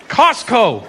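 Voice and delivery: mock panicked blurt. Panicked comedian answering the angry Italian, flustered blurt. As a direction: blurt out the first answer you find. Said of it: "I panicked, right? I'm like".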